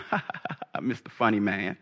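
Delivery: mock laugh, then needling sarcasm; sarcastic mother calling out her son; sly Mary. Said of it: "with a sly smile going".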